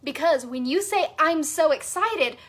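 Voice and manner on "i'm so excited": genuinely excited. Shown as a demonstration. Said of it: "from that activated place".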